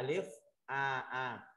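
"alif", then "A A" with a plain ah; spelled-out syllable reading. Shown as a demonstration. Teacher showing students how alif with mark A reads, sounding out. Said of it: "Đọc là".

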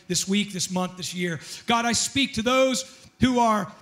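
earnest pastor praying over the room; fervent spoken prayer; public prayer. Real, not acted. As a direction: declare a prayer with measured, emphatic phrasing.

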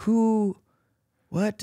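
high, squeaky double-take; a stunned who-what; startled disbelief. Retold or imitated. Dancer stunned by a star's praise, high startled squeak. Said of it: "And you're like".

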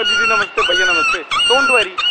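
high, squeaky mock greeting to the sister and her brother; mock polite greeting. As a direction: play the sweet little brother greeting them. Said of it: "दीदी बोल दूंगा".

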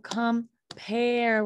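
"compare" slowly, stretching "pare"; long A brought out. Shown as a demonstration. Teacher pointing out the A, "compare" slow with a long second syllable. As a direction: break "compare" into com, PAIR. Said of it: "We're hearing that A".

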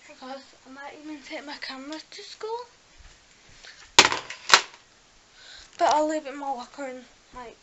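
slightly muffled by retainers; wearing a retainer. Real, not acted. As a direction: talk around a dental retainer. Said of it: "I've got my retainers in".

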